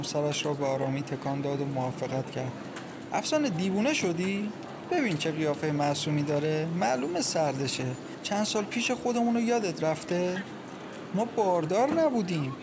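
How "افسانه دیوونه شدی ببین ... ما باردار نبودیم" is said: higher, sharp objecting voice; exasperated protest. Acted. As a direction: scold your friend for being reckless. Farzaneh objects to taking the girl.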